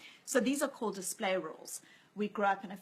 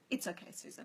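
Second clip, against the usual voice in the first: softer, breathed "It's okay, Susan" with dry amusement; deadpan whisper; 6 dB quieter than usual. Retold or imitated. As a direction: tease the ranting wife with her own words. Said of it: "looked at me completely quiet, bemused".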